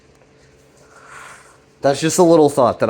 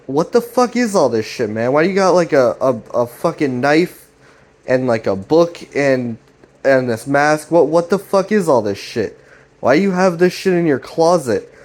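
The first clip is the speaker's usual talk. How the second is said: exasperated questioning; 3 semitones higher than usual. Retold or imitated. Jeff questioning Greg about the knife and mask, acted exasperation. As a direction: imitate a baffled brother demanding answers, without shouting.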